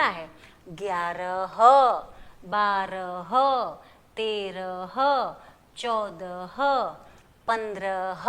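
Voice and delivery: numbers said one by one for the class to repeat; steady drill, pause after each number; teacher counting aloud for students to echo; slow counting drill. Shown as a demonstration. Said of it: "आप भी मेरे साथ बोलिए".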